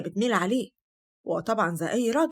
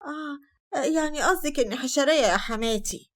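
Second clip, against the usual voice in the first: feigned hurt; 5 semitones higher than usual. Acted. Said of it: "هند بتمثيل".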